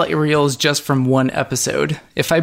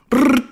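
mess-up noise; 11 semitones higher than usual. Retold or imitated. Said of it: "do you think you can impersonate it?".

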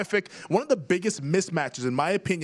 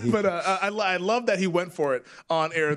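ordinary talk, nothing marked

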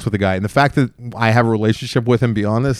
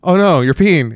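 alarmed surprise; 5 semitones higher, slower than usual. Retold or imitated. Dog peeing on floor.

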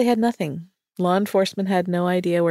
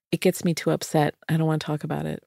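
wife's subdued answer; 3 semitones lower, 5 dB quieter, faster than usual. Retold or imitated. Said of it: "her answer was".

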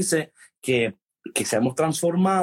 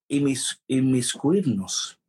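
inmiscuirnos drawn out slow, syllable by syllable; slow careful word; slower than usual. Shown as a demonstration. Host proud of his Spanish, says inmiscuirnos slowly. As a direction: savor the hard word inmiscuirnos, slowly and deliberately. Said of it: "Guau, oye, mi español".

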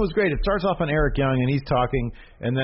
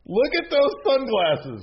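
excited; 14 semitones higher, slower than usual. Real, not acted. Excited slow emphasis.

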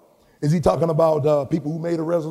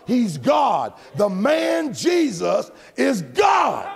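drawn-out, shouted preacher declaration; impassioned pulpit proclamation; emphatic preaching; 4 semitones higher, much slower than usual. Real, not acted. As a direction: preach it hard, stretching out the key words.

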